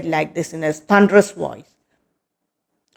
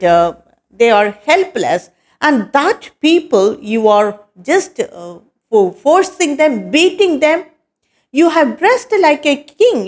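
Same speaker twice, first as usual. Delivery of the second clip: a hint of an angry king demanding answers; mild thunderous king; 3 semitones higher than usual. King Parikshit confronting the cruel man, mildly raised and stern. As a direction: raise the pitch a little, a lightly voiced royal challenge. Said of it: "He asked in his thunderous voice".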